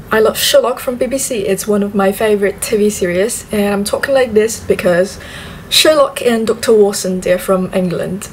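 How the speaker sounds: attempted English accent, lightly put on; badly faked English accent, slightly lilting. Fan talking about Sherlock from BBC, in a bad English accent. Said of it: "That was really, really bad accent".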